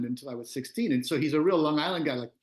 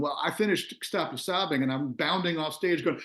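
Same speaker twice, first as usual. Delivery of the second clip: ordinary talk, nothing marked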